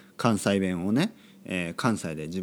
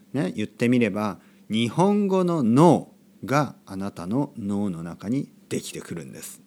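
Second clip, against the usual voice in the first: audiobook delivery. Real, not acted. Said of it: "オーディオブックみたいな話し方になりました". (オーディオブックみたいにゆっくり語る口調)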